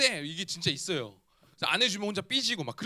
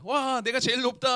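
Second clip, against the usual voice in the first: imitated excited child; 3 semitones higher than usual. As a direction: play a thrilled child up high on dad's shoulders. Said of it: "하면서 막 신났어요". (신난 아이 흉내)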